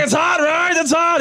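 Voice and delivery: very high squeaky voice; mock giddy guy. Imitating the man, very high and giddy. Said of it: "He's like".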